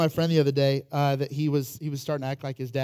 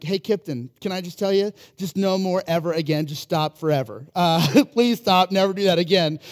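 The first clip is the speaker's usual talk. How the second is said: pleading parent; 2 semitones higher, 5 dB louder than usual. Retold or imitated. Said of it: "I'm like".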